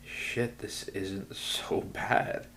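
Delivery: slow whispered thought to self; hushed, slow inner voice. Retold or imitated. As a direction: breathe it as a private realization. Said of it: "in my head, I'm like".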